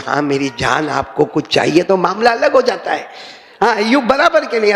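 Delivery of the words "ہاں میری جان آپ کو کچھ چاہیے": loving wife. Retold or imitated. Wife greeting late husband, lovingly asking what he needs. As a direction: ask sweetly, like a devoted wife. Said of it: "اگر پیار سے بولے".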